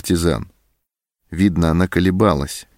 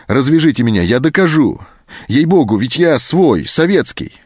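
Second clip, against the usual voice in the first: desperate begging; 7 semitones higher, 4 dB louder than usual. A narrator's reading. Anton begs to be untied.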